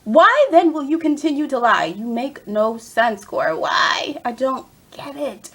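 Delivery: baffled, emphatic telling-off; exasperated scolding. Pretend. Fan asking Cora why she lies, exasperated. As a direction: hammer it out in mock outrage.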